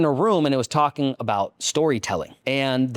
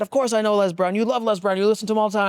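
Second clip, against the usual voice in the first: dad; 8 semitones higher, faster than usual. Retold or imitated. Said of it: "He said".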